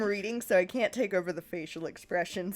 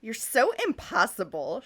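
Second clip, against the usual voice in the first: exclaiming; 4 semitones higher, 4 dB louder than usual. Acted. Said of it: "Cherie exclaimed".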